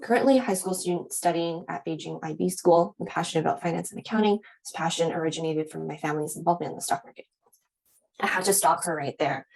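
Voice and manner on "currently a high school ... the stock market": imitating a student rattling off a written answer; unexcited read-aloud. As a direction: read it quickly off the page, unexcited. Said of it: "read it in a way that she was reading it".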